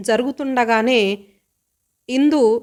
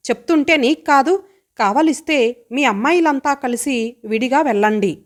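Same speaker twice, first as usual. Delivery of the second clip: suppressed anger; 2 semitones higher than usual. Acted. Brother to sister, curbing his anger at her. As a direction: hold back the anger and push the words out. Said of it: "చంద్ర పళ్ళు కొరుక్కున్నాడు కోపం అణచుకోవటానికి".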